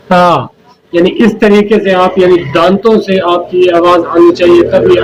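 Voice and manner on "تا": تا with the tongue between the teeth; demonstrated letter sound. Shown as a demonstration. Teacher models the letter sound for viewers to copy. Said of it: "اگر آپ دیکھ سکتے ہیں تو".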